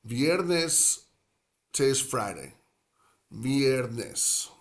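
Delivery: viernes in three clear syllables, vee-ER-nes; slow clear viernes. Shown as a demonstration. Teacher modeling viernes for learners, careful pronunciation. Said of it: "Three syllables".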